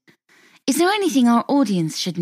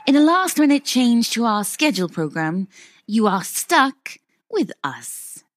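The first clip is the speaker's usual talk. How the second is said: TV presenter. Acted. Presenting a TV show.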